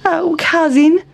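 high, whiny little town mouse. A narrator's reading. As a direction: complain as a fussy mouse.

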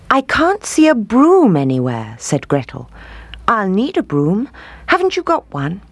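put-on high, timid girl; little girl voice. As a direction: ask meekly, young and unsure. Gretel asks the witch.

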